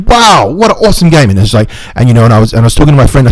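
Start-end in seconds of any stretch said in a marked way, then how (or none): 0.1-1.3 sudden high-pitched excited exclamation; fun yell. Shown as a demonstration. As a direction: burst out playfully with a high, swooping voice. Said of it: "He just yells loudly in a fun way".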